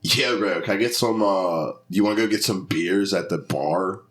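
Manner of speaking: casual put-on Delco accent. Shown as a demonstration. Podcaster demonstrating local talk for a friend, Delco accent attempt. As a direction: try a Delco local at the bar. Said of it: "That was Delco".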